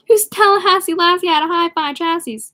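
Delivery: re-read it in amused disbelief; incredulous reread. Real, not acted. Reader rereading the strange line to listeners, baffled.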